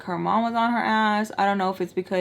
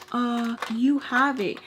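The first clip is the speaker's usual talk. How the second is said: mocking voice; 4 semitones higher, slower than usual. Mocking the accuser.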